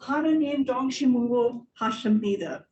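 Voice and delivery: firm, connected second attempt. Shown as a demonstration. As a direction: run the foreign phrase together without breaks. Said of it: "Try it again".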